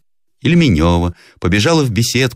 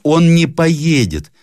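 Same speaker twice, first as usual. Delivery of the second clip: reassuring; 12 semitones higher, 5 dB louder, much slower than usual. Acted. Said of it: "сказала Лидина".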